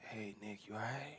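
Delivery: imitated depressing, gloomy tone. Retelling how dad sounds when calling to check in: imitating dad's depressing tone. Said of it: "his tone put you in the depression".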